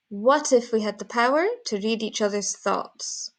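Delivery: "had" light, weight on "power" and "thoughts"; had left unstressed. Shown as a demonstration. Teacher modelling for learners, "had" unstressed. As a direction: pass lightly over "had". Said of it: "it's not one of the important words".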